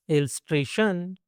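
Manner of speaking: इलस्ट्रेशन stretched, with a long final "shun"; इलस्ट्रेशन lengthened for learners to follow. Shown as a demonstration. Word model, then drawn-out repeat.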